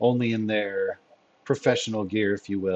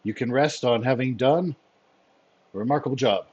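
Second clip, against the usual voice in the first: lightly voiced commander, formal and approving; measured orders with emphatic praise; Fury; 4 semitones higher than usual. Commander dismisses his agents with thanks, lightly voiced.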